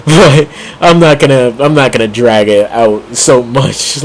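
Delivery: grinning through the words; smiling voice. Real, not acted. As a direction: say it with a smile you can hear. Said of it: "probably the smile in my voice".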